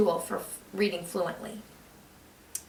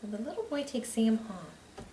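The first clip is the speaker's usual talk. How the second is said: soft model reading; 10 dB quieter than usual. Shown as a demonstration. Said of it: "make sure it fits".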